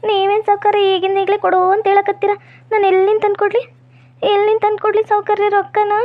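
tearful plea. Acted. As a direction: plead tearfully with the moneylender. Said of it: "ನೀನ್ ಅಳ್ಬೇಡ".

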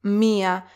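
MIA as mi-a, accent on the i; "mia" in two separate beats; two syllables. Shown as a demonstration. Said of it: "separately from alpha".

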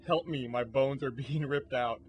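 slow mock plea breaking into a laugh; badly faked agony, laughing midway; half-hearted horror. Shown as a demonstration. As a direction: plead for help without conviction, then crack up. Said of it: "I can't do horrible noises".

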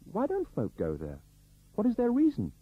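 pressing, rising high on the last question; persistent questioning. A narrator's reading. Mary pressing the uneasy driver for a reason, persistent. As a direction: push for an answer, insisting. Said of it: "Mary persisted".

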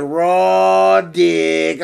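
lightly voiced teasing friend calling out; mocking buddy voice. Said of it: "he'd be like".

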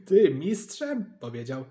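slow, loud mocking disbelief; laughing scorn. A narrator's reading. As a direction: laugh it in his face. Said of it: "Tata się roześmiał".

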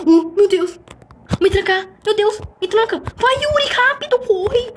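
high, frightened pleading; panicked begging to be locked in; scared horror game streamer. Real, not acted. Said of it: "Tô com medo real".

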